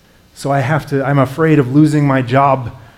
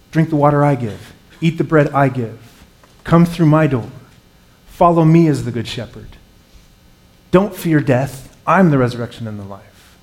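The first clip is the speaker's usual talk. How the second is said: raised, declarative voice of command; proclaiming; 3 semitones higher, 5 dB louder than usual. Acted. Preacher voicing Jesus's commandments to the congregation, proclaiming. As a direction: proclaim each command on its own, firmly.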